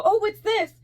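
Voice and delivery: high, loud squeal of curiosity; overeager excitement. Retold or imitated. Retelling her pastry shop questions, overexcited. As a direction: leap up in pitch at a new find. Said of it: "you were overwhelming".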